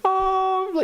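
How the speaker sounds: very high, slow, hammed-up misery; mock depressed sibling. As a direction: imitate an overdramatic kid, high and dragged out. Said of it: "They don't quite say it like this, but they go".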